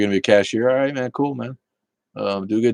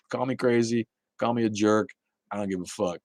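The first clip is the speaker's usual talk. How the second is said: ordinary talk, nothing marked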